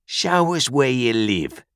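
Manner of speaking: slow, drawn-out high order; menacing convict dragging out a command; demanding convict. A narrator's reading. Convict interrogates the boy.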